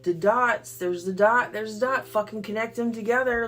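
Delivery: loud, drawn-out, incredulous outburst; fed up and loudly indignant; exasperated rant. Real, not acted. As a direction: berate them, stretching the key words. Ranting at people mocking a singer.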